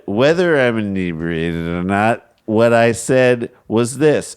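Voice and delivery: put-on slow, deliberate drunk official. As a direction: read it slowly like a tipsy councilman. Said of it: "Mays said".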